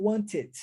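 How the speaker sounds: "want it" linked as "wan-tit"; T pronounced. Shown as a demonstration. Teacher shows the alternative common in British English, T kept. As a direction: join "want it" keeping the T sounded. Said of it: "no inglês britânico".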